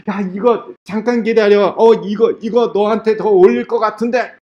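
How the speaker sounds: hint of an eager, helpful person; eager generous giver. Person robbed of underclothes offering the outer coat too, eagerly.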